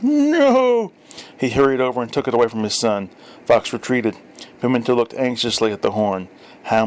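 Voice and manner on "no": shout. Acted. Father stops son blowing trumpet.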